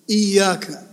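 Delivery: إياك as iy-yaka; doubled ya. Shown as a demonstration. Teacher confirming the shadda, lengthened Y in إياك. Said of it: "الياء مشددة".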